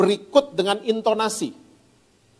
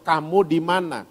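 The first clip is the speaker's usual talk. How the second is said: tender caring question; gentle question; 3 semitones lower than usual. Retold or imitated. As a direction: call gently to the one who fell. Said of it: "Nanyanya baik-baik".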